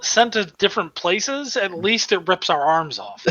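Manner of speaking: deadpan, matter-of-fact reasoning. Real, not acted. Player explaining why the party should hold hands, matter-of-fact. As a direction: state the absurd reason as plain fact. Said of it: "You said that so matter-of-factly".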